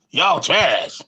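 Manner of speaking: lightly voiced impression of a famous man; a hint of a put-on voice for a teasing verdict; a singer. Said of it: "a singer's voice".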